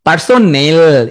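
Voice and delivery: slow পার্সোনেল with a long "nel"; spelling emphasis. Shown as a demonstration. Teacher warning it is e, drawn-out পার্সোনেল. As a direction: stretch the e and l ending পার্সোনেল. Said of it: "এটা কিন্তু এ না".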